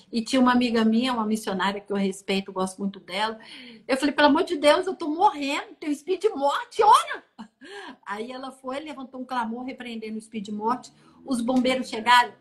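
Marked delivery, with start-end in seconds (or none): 4.1-7.2 high, loud begging that climbs to a cry; retold desperate plea. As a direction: re-enact an urgent cry for prayer.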